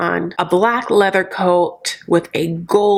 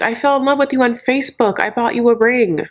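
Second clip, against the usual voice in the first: higher-pitched mock lament; mock crying; 5 semitones higher than usual. Recapper imitating a dumped man, mock crying. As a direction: plead like a jilted man, hammed-up. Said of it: "He cries".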